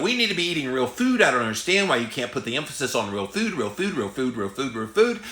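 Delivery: mock-insistent chant of a repeated plea; earnest lady testifying. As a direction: imitate a woman pleading her case, hammering the repeats. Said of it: "she was like".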